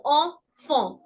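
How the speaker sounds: enfant very slowly, both nasal vowels, silent t. Shown as a demonstration. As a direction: stretch out enfant ɑ̃fɑ̃. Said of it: "A N has a sound of en".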